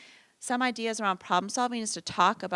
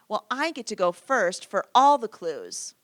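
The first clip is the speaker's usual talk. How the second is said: put-on child voice; 10 dB louder, slower than usual. Child's brainstorm idea.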